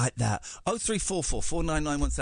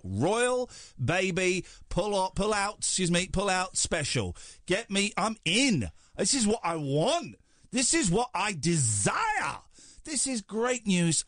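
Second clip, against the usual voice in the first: high, overexcited royal superfan; a hammed-up breathless royalist; gushing royalist; 6 semitones higher, slower than usual. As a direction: gush like a devoted fan of the Crown. Royalist persona wants newspapers.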